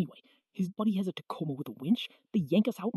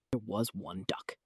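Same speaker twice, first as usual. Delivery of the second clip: deflated; 12 semitones lower, 10 dB quieter than usual. Acted. Kid sighing and conceding to his brother, deflated. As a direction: lower and much softer, resigned.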